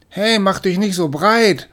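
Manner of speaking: high, slow indignant kitten snap; hissing at her brother. Acted. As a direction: shove back with a sharp little hiss. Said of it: "fauchte sie ihn an".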